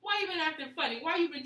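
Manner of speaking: put-on light, high-pitched girlfriend sweet-talk; playful coaxing. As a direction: coax a boyfriend gently, in pretend. Models casual sweet approach to boyfriend.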